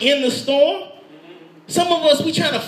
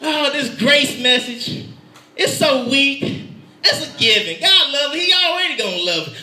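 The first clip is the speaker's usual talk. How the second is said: mocking skeptic. Preacher mocking the doubter's view of grace, scornful. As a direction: lightly voice a dismissive doubter. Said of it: "here goes another trick".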